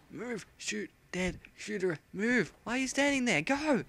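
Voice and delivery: high, loud impatient shout; exasperated shout; annoyed yell. Real, not acted. Yelling at NPC.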